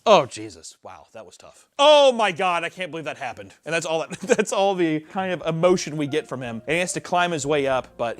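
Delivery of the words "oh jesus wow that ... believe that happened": flat mock surprise. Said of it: "Just being like".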